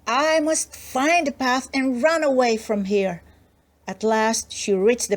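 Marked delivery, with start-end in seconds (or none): 0.1-3.2 afraid. Acted. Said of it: "Now, quite afraid".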